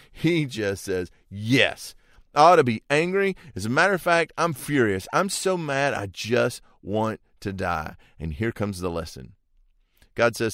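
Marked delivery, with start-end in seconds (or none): 1.3-5.9 higher, louder, fast angry retort; furious outburst. Retold or imitated. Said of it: "And he just explodes". 5.9-8.0 slow, bitter death wish after the rage; angry end of outburst. Retold or imitated. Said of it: "And he just explodes".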